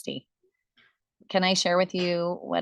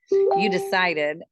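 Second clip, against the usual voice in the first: "decided" drawn out slow and louder; stress on decided; 5 dB louder, much slower than usual. Real, not acted. Coach praising the seller's commitment, slow firm stress on "decided". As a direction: land hard and slowly on "decided". Emphatic repeat against half-hearted quote.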